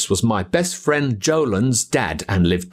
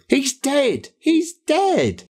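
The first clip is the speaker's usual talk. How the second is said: higher, anguished repeated cry; distraught cry; 14 semitones higher, much slower than usual. Acted. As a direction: blurt it out as the grief hits. Friend cries out over dead dog.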